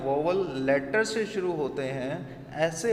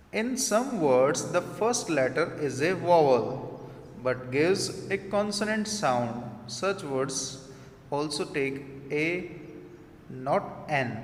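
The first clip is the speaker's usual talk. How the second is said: slow, deliberate reading of an English rule; much slower than usual. Shown as a demonstration. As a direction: spell out the rule word by word for the class. Reads rule aloud slowly. (धीमे-धीमे नियम पढ़ना)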